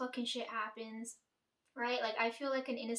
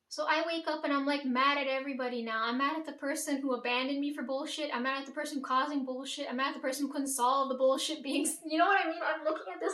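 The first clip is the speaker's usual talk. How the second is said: really fired up and getting louder; worked-up rant; 2 semitones higher, 4 dB louder than usual. Real, not acted. Telling friends about the dream, growing louder and angrier.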